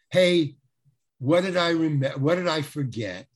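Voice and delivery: cocky wise guy. Retold or imitated. To the script lady, a cocky know-it-all call. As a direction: play the seasoned pro who's got it handled. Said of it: "Mister Wise Guy".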